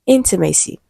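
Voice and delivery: "intimacy" with the weight on "in"; first-syllable stress. Shown as a demonstration. Teacher confirming the answer to students, "intimacy" stressed on its first syllable. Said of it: "stressed on the first syllable".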